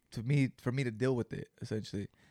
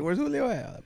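high-pitched, louder mimicked question; teasing imitation, pitched way up; mock asking around; 13 semitones higher, 5 dB louder than usual. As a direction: call it out high, imitating a seeker. Mimics someone asking after him.

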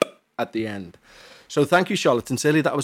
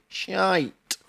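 put-on Welsh accent; 7 semitones higher than usual. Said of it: "Dare I say, as you say".

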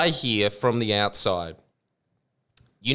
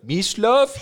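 surprised; 9 semitones higher, 4 dB louder than usual. Retold or imitated. TK surprised calling out.

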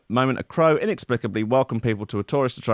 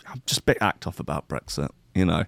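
mock sulky crow; 4 semitones lower, 4 dB quieter than usual. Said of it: "You don't sound all right".

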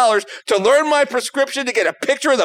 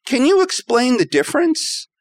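carefully polite question, voice raised a touch; trying to be nice; 3 semitones higher than usual. Retold or imitated. Patient asking clinic staff to explain the difference, trying to be nice. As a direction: ask patiently, holding back confusion. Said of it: "I'm trying to be nice".

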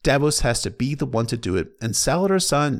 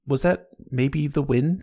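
ordinary delivery

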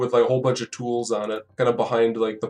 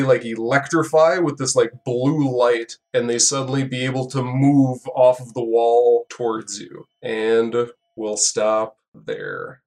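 ordinary talk

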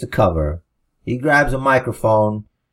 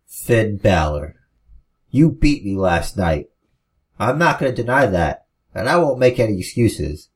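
measured and methodical. Acted. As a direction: lay each word down coldly. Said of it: "His voice is measured and methodical".

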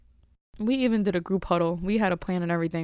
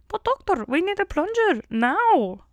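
high, insistent puppet voice; Kermit; 11 semitones higher, 3 dB louder than usual. Retold or imitated. Receptionist insists to doctor on a plunger, high puppet impression. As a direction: imitate a puppet-voiced receptionist pleading, slowing at the end. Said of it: "that sounds like Kermit".

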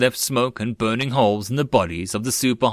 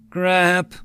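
high-pitched, understated curse; cursing; 8 semitones higher, 3 dB louder than usual. A narrator's reading. Sergeant cursing over lost support, mildly. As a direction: curse at the bad news. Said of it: "Tyria cursed".

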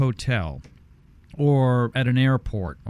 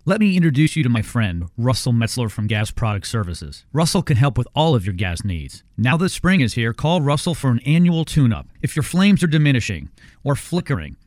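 radio ad read; 4 dB louder than usual. Acted. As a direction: pitch the sponsor like a live radio spot. Host reads sponsor ad.

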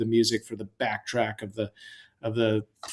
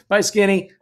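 laughing goodbye; 6 semitones higher, 5 dB louder than usual. Real, not acted. Teasing wife back on phone.

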